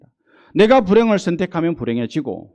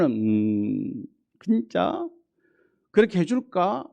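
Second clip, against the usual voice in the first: doubtful hesitation; 4 dB quieter, much slower than usual. Retold or imitated. Doubting believer's inner voice.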